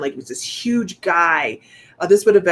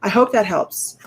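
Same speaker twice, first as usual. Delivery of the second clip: bright sign-off; 4 semitones higher, 4 dB louder than usual. Shown as a demonstration. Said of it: "Shifting gears like that".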